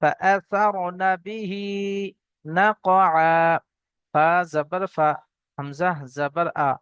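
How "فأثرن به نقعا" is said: slow drawn-out Quran recitation. Shown as a demonstration. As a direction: chant each word slowly. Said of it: "teacher recites the verse".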